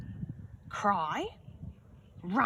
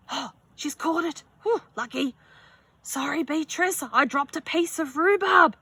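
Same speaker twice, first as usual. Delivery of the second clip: put-on higher, lively girl voice; bright friend voice; 7 semitones higher, 6 dB louder than usual. Friend Millie apologizes to Beatrice, higher and lively. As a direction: play the cheerful friend.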